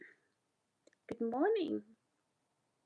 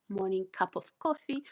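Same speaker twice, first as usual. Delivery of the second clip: ordinary delivery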